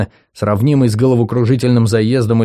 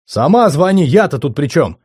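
exploding; 5 semitones higher than usual. Acted. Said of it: "Взорвался".

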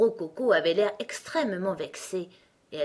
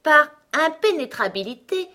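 pompous explanation; 8 semitones higher, 7 dB louder than usual. Acted. Gros Coco grandly defines a word.

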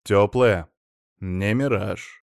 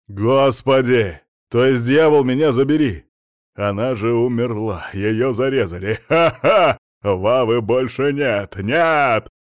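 frantic ecstatic cry; 6 dB louder than usual. Acted. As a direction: shout it out like a man gone mad with relief. Frenzied inner cry of relief.

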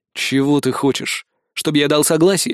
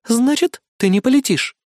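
higher, delighted question; gleeful question; 9 semitones higher than usual. Acted. Amanda asks the hero, delighted. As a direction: let the joy slip into the question. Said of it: "Обрадованно спросила Аманда".

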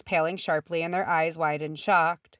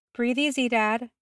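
higher-pitched soothing of a father; calm an ailing dad; gently reassuring; 6 semitones higher than usual. A narrator's reading. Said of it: "Barris soothed him".

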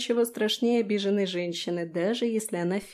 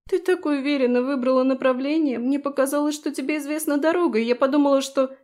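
higher, louder teary explanation; tearful excuse; 6 semitones higher, 5 dB louder than usual. Acted. Felicia explains to Daphne before sniffling, teary. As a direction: whimper the excuse through tears.

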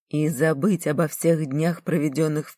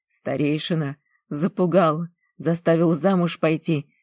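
louder, angry bitter complaint; bitter outburst; 2 semitones higher, 4 dB louder than usual. Acted. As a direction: rage at the injustice. Girl pours out grievance, angry.

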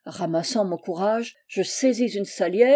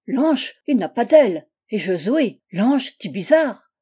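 put-on loud, emphatic German-accented scolding; irascible accented angel; 5 dB louder than usual. Angel lecturing the cowed host on wings, irascible creature. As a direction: hammer out each repeated phrase.

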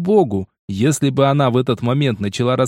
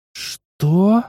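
a confused, raised little "что"; taken aback; 6 semitones higher than usual. Acted. Fatima confused by the order, surprised. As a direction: caught off guard, asking back. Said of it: "растерялась Фатима".

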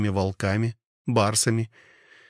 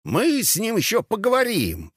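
toothless mumble; 11 semitones higher than usual. A narrator's reading. Toothless old centurion speaks again.

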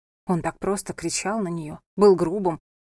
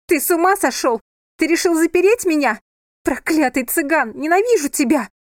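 much higher, very loud sobbing yell; screaming in tears; 8 semitones higher, 7 dB louder than usual. A narrator's reading. Sofia screams through the locked door, in tears. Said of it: "Разревелась она".

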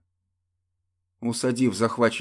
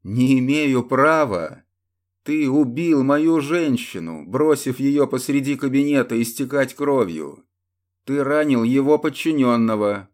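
madly furious; 4 semitones higher, 5 dB louder than usual. Acted. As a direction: rage at him, barely in control. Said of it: "Глеб только безумно расхохотался".

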